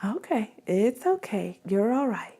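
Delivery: put-on pat and hush the baby gently; soft soothing. Shown as a demonstration. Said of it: "I move to a gentle pat".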